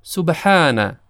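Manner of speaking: سبحانه with a thin, light س; light seen. Shown as a demonstration. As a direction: keep the س in سبحانه light, not heavy. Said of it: "حرف سین تلفظش با صاد کاملاً متفاوت هست".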